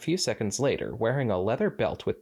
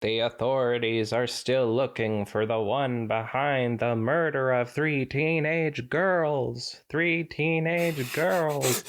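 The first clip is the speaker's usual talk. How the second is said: slow, high echoing flashback; memory voice; 5 semitones higher, slower than usual. Acted. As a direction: recall it like a distant echo. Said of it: "you gotta do your, uh, memory voice".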